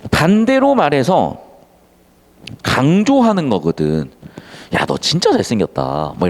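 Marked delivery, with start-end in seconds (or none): 4.7-6.1 sarcastic compliment. Shown as a demonstration. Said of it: "막 이러면서 비꼬는 거지".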